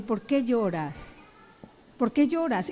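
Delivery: quiet compassionate asking; gentle caring question. Shown as a demonstration. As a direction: comfort the spouse gently. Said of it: "levantarme un poco más y decir".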